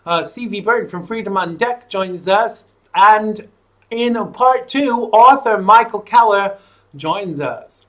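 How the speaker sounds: lively presenter reading out tonight's line-up; show host intro. Real, not acted. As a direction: talk show opening announcement.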